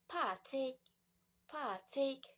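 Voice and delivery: "patik" for plastic, L and S dropped; two-beat "patik", rising at the end; Thai pronunciation. Shown as a demonstration. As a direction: demonstrate Thai-style "patik". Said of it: "Thailand accent becomes".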